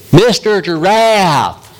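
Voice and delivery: high, drawn-out cartoon frog voice; wide-mouthed frog. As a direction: stretch the words wide like a big-mouthed frog. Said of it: "there's a wide-mouthed frog".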